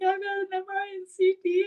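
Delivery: high, mock sobbing voice of a crying patient; hammed-up tearful wail, high and fast; imitating bawling. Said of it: "going over the top".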